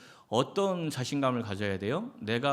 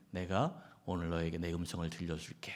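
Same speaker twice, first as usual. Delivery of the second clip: lower, softer solemn divine voice; voice of God; 6 semitones lower, 6 dB quieter than usual. Acted. Preacher acting God answering a praying believer, low and solemn. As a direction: speak as God, low and hushed. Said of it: "이러시더니 말씀하시는데".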